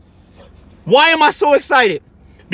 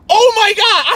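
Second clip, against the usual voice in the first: retold excitement; 11 semitones higher than usual. Retelling seeing the coach.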